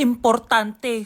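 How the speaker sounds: slow dramatic. Acted. Dramatic confirmation of gossip.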